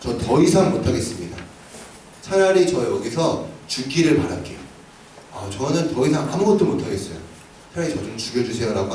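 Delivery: soft, hopeless plea, a touch of despair; despairing prayer. Retold or imitated. Elijah under the broom tree pleading to God, soft and despairing. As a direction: beg quietly like someone ready to give up. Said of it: "하나님 앞에 죽기를 간 거예요".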